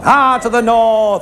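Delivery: slow, drawn-out commentator voice; mock northern commentator, slow and drawn out; Eddie Waring drawl. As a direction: stretch it like an old rugby commentator.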